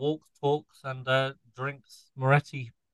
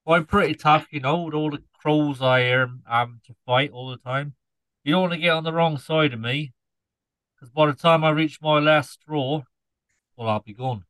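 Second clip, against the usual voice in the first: put-on Norfolk scarecrow accent. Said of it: "explain the accent".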